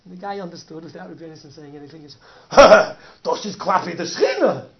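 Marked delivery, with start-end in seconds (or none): 2.5-4.7 awed laughter. Retold or imitated. Humbled man laughs in awe.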